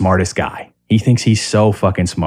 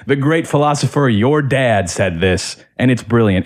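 mocking pompous dad; 2 semitones higher than usual. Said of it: "He's saying".

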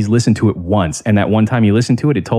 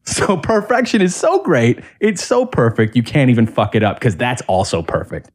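mocking dad; 2 semitones higher than usual. Mocking dad's philosophy.

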